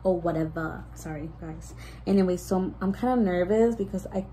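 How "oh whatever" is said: Bretman Rock. Shown as a demonstration. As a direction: toss it off in a light celebrity imitation. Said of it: "I sound like Bretman Rock".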